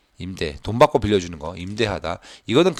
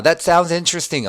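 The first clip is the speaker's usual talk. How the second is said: slow, higher model reading; slow read-aloud; 8 semitones higher, 3 dB louder, much slower than usual. Shown as a demonstration. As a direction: stretch the line out for the class. Teacher reads dialogue line. (천천히 높게 읽기)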